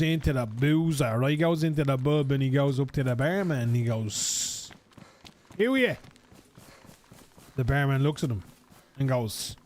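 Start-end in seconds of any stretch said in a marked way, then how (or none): 5.6-6.0 high, careful, spelled-out English; pitched-up over-careful English to a tourist; slow tourist English. Retold or imitated. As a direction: talk slowly as if to a foreigner. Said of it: "slowing down their English tune".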